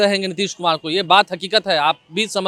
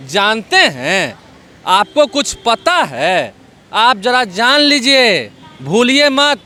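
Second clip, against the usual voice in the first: pointed warning; 4 dB louder, much slower than usual. Retold or imitated. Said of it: "क्या लिखा है".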